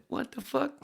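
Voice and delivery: a stunned on-air shout; shocked shout. Retold or imitated. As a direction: blurt it out on air in disbelief. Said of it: "they went on the air and said".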